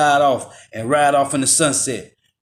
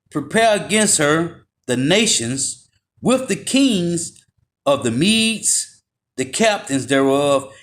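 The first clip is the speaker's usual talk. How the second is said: measured, drawn-out reading of the verses; slow scripture reading. Acted. Preacher reading Jeremiah to the Edomites, slow and measured. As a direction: lay out the prophecy slowly and gravely.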